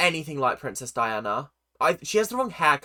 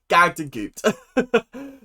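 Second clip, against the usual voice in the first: laughing; 2 semitones higher, 4 dB louder, much slower than usual. Real, not acted. Laughing reaction to show result.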